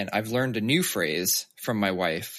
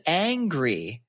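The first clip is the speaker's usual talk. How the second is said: mock tense toddler; 6 semitones higher than usual. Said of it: "tenses up and says".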